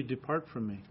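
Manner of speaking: low, soft voice of God passing judgment; God pronouncing judgment, quiet and low; God's judgment. Acted. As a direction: speak as God rejecting the sinner, quiet and grave. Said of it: "he is gonna say to you".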